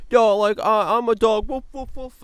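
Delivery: high, loud silly voice, with yapping woofs at the end; hammed-up high mock voice; mocking imitation. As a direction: parody her as a yappy little dog. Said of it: "and she's like".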